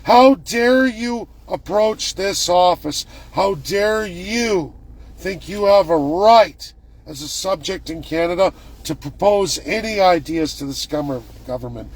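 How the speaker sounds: mock indignant lecture. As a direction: drag it out with contempt. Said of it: "I was told".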